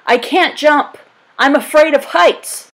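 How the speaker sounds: high, panicky wail; scared innkeeper begging; frightened pleading. A narrator's reading. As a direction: innkeeper at the window, panicking about the jump. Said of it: "he shouted".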